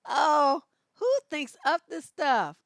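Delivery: loud, laughing disbelief. Real, not acted. Laughing hard at a silly meme, loud. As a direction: cry it out through laughter.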